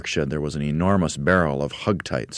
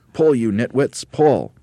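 raised, loud heave-ho order; commanding shout; 7 semitones higher, 6 dB louder, slower than usual. A narrator's reading. Monkey leader hauling carpet, commanding shout. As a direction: bark the order impatiently.

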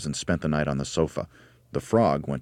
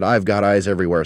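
loud, higher crowing boast; cackling; 4 semitones higher, 7 dB louder than usual. A narrator's reading. Mrs. Twit warns her husband she is watching, cackling. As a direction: crow it like a cackling old hag. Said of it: "cackled Missus Twit".

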